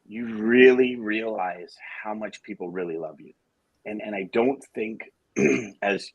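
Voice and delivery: choking up, holding back tears. Real, not acted. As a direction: voice tight, choking up with emotion. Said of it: "sorry, I'm choking up here a bit".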